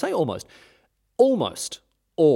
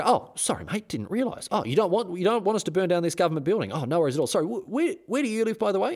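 high, chirpy fake apology; mock breezy soldier; 7 semitones higher, faster than usual. British soldiers breezily apologising to the local, high mock cheer. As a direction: sound cheerfully oblivious, pitched up.

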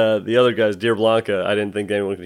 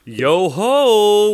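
pirate voice; 9 semitones higher, 4 dB louder than usual. Pretend. Pirate greeting before Pirate Day.

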